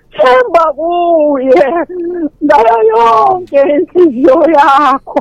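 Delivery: slow, drawn-out verse recital; scripture recitation. Acted. Testifying believer quotes scripture to fellow worshippers, slow, drawn-out recitation. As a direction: recite it slowly, stretching the key words.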